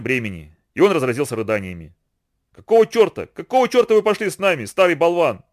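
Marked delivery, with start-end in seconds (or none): 2.5-5.4 higher, louder outraged outcry; shouting in furious disbelief. A narrator's reading. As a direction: rage at him with clenched fists. Furious Kofi shouts at Hunsi.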